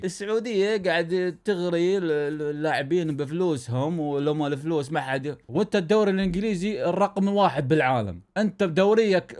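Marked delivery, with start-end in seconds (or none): 0.0-5.4 mock English accent on Arabic, the voice unlike his own; English pundit impression. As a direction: keep the English pundit's accent, dragging at the end. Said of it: "طبعًا هو انجليزي مو يحكي عربي". (تقليد معلق إنجليزي بلكنة إنجليزية)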